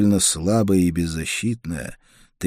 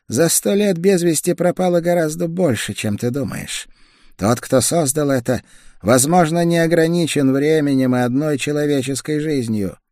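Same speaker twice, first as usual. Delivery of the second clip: higher, tense voice of a sick woman; feverish young woman; 9 semitones higher, 4 dB louder than usual. A narrator's reading. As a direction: feverish woman, pushing through chills. Feverish woman magister speaks.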